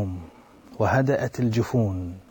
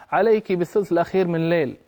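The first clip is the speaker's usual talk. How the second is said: mocking retort; 4 semitones higher, faster than usual. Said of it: "فأخذ يضحك منها باستهزاء ويقول لها".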